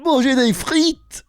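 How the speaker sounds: Jeff Tuche impression. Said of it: "C'est une folie comment tu l'as".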